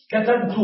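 كتبت ending in -tu, katabtu; first-person ending. Shown as a demonstration. Teacher conjugates for "I", كتبت pronounced katabtu. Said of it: "أنا".

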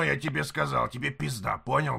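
normal talking voice

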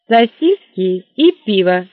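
curt, loud and slow; a brusque barmaid cuts him off; sharp. Acted. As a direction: snap out the order. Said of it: "резко сказала девушка".

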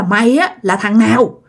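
mildly angry questioning; acted, understated confrontation; angry demand. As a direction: demand answers with a touch of anger. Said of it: "ông Tám mới tức quá".

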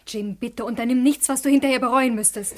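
urgent plea. Acted. Wife pleading with husband.

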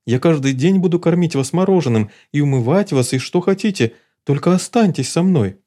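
earnest begging; pleading. Acted. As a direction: plead with everything. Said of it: "взмолился Питер".

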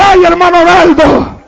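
mildly mournful preacher's retelling; retold tearful plea. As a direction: plead as she did, without real sobs. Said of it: "Y llorando me dice".

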